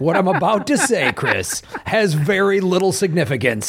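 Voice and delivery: a light hint of a dramatic trailer announcer; mock-portentous movie trailer read; action movie announcer voice. Shown as a demonstration. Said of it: "My action movie announcer voice guy".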